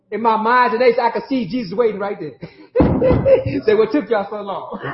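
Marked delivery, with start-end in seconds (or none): 3.7-4.8 laughing tease. Retold or imitated. Jesus teasing, laughing.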